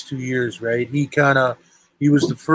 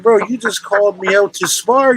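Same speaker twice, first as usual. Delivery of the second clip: raised-pitch, incredulous complaint; retold protest; 5 semitones higher than usual. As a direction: act out your objection to the cancellation. Retells protest at cancelled sparring.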